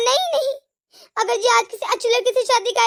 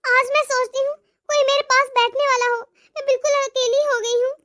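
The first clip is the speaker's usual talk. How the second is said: regretful monologue; 2 semitones higher than usual. Acted. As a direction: speak to yourself, full of remorse. Long remorseful monologue by mother.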